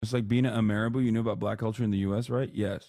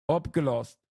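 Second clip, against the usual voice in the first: slow, higher-pitched Dutch read-out; 6 semitones higher, slower than usual. Shown as a demonstration. Streamer demonstrating Dutch to viewers, slow careful Dutch. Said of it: "this is Dutch".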